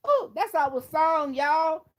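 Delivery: squealed very high and loud; mock excitement. Streamer imitates Tracy hearing her song, shrill excited squeal. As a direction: shriek it like a thrilled partygoer. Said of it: "And she said".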